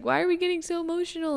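mildly worked-up, puzzled asking; emotional question. Retold or imitated. Podcaster retelling her question to Jacob after both cried, emotional.

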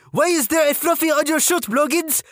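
high French-Canadian female sergeant voice; French-Canadian accent. Retold or imitated. Female sergeant scolds recruit over fluff, French-Canadian accent. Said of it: "female French-Canadian sergeant with this accent".

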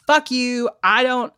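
imitated irritated comeback; pissed off. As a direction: act out someone popping off. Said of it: "He gets fucking pissed".

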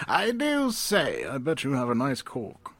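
lightly put-on old-timey gentleman; a hint of a Victorian dandy. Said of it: "That's my old-timey voice".

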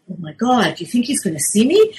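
put-on young storyteller. Shown as a demonstration. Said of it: "stories that go something like this".

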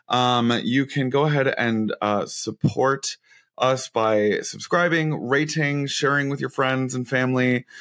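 drowsy, dragging words; nodding off. Real, not acted. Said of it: "before I pass out".

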